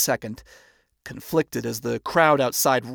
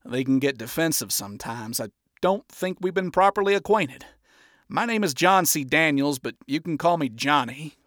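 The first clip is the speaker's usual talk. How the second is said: diplomatic. Acted. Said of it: "handout in diplomacy".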